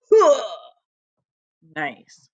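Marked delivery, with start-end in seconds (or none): 0.1-0.4 mock strongman grunt. Flexing a buff pose.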